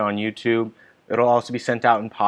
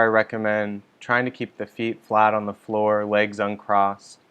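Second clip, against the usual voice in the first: calm, measured meditation guidance with long pauses; unhurried meditation leader, leaving space between instructions; guided meditation. Real, not acted. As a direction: guide listeners gently into settling, phrase by phrase.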